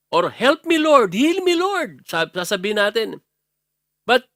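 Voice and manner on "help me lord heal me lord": pleading prayer. Pretend.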